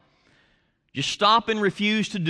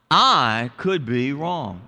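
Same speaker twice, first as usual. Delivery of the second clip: with a smile; 3 semitones lower, slower than usual. Shown as a demonstration. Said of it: "this time with a smile".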